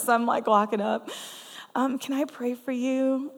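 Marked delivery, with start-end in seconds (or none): 1.7-3.3 hesitant, slightly higher request; nervous. Retold or imitated. Introvert approaching an elderly stranger to pray, nervous. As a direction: nervously work up to asking, slowly. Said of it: "I get nervous".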